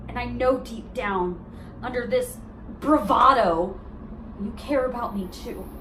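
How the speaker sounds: halting, heartfelt reasoning with long pauses; earnest, hurt challenge; pained insistence. Acted. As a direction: press an ex to admit their feelings. Monologue, challenging ex-boyfriend's denial.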